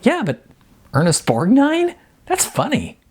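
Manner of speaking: high, amused and giggling; giggly. Acted. Jasmine giggling to Icon about the star, high and amused. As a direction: let the giggle carry the name. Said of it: "Jasmine giggled and said".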